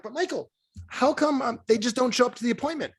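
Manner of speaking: complaining client. Retold or imitated.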